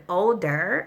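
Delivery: put-on "older" drawn out with a rising tune; stress on older. Shown as a demonstration. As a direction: lean hard on "older", rising. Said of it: "may I stress that word".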